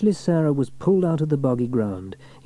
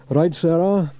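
louder firm call; Fireman Sam; 7 semitones higher, 7 dB louder, slower than usual. A narrator's reading. Sam calls to Sarah stuck in the bog, firm. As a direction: get her attention. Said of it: "said Fireman Sam".

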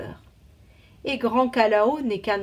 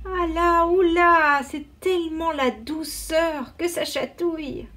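much higher, louder squeal of delight; tickled exclamation; 8 semitones higher, 4 dB louder than usual. A narrator's reading. Boy tickles his toes with a feather, delighted. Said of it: "s'écria Moala".

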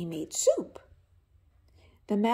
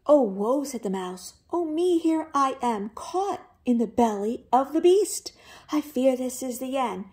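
mouse lamenting; 3 semitones higher, 4 dB louder than usual. Acted. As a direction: wail like a doomed little mouse. Mouse laments in wolf's belly.

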